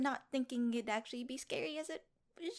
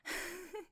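giggle; 5 semitones higher, 10 dB quieter than usual. Acted. Giggling after the prank.

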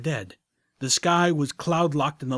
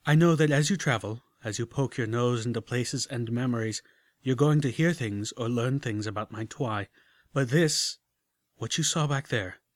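hard edge. Acted. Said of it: "slightly hard edge".

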